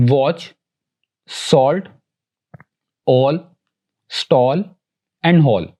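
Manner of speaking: "watch, salt, all, stall and hall" with a rounded "aw". Shown as a demonstration. Teacher giving another sound of A, "aw" in "watch, salt, all, stall and hall". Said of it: "ओ है".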